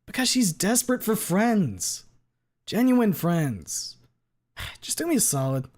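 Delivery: slow, heavy and sincere; slow earnest bro. Acted. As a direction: drag out each word, heartfelt. Leon voice, slowed.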